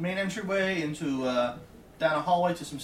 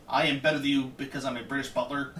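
snooty British butler; faster than usual. Retold or imitated. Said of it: "kind of attitude".

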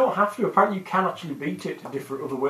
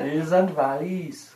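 put-on Welsh accent; slower than usual. Welsh impression banter.

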